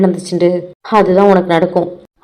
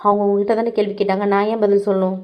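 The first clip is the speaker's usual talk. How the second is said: much softer, meek plea to stop the fight; soft pleading; 6 dB quieter than usual. Acted. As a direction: take the blame in a hushed, humble voice. Girl takes blame, pleads softly. (சண்டை வேண்டாம் என்று மெல்லிய குரலில் கெஞ்சல்)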